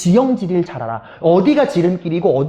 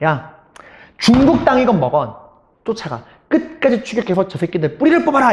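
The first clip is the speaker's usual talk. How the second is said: furious, enraged military commander-style barking; 4 semitones higher than usual. Acting out an army commander ordering pursuit: imitating an enraged order. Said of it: "일본군 너무 열받아서".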